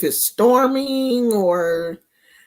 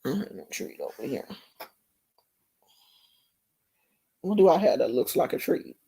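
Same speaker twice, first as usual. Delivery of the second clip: muttered fast aside, much softer and lower; quiet aside; 10 semitones lower, 8 dB quieter, faster than usual. Real, not acted. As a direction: rush it under your breath. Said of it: "I'll pretend like this is a treat".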